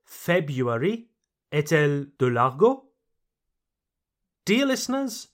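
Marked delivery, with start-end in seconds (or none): 0.0-1.1 February as FEB-yoo-air-ee, rising as in a question; second pronunciation. Shown as a demonstration. Teacher quotes the second pronunciation to ask if slang, February without first R. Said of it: "La deuxième prononciation".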